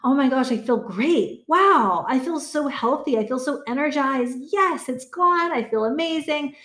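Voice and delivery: imagined cheerful waking. Pretend.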